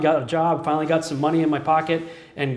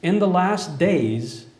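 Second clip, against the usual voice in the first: scripture reading. Acted. The preacher reads Hosea to the congregation, measured and solemn. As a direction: read the passage with weight.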